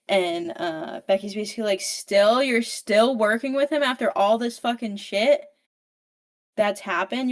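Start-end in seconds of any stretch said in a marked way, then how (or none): 1.8-7.3 Becky yells at her mom in disbelief; angry outburst. Retold or imitated. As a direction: daughter furious at her mother.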